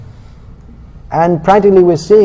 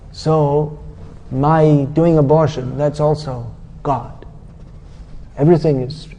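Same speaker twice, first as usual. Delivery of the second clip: mocking Mayavadi. Preacher mocks how Mayavadis talk, lightly smug. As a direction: poke fun at his airy claims. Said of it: "This is the way Mayavadis talk".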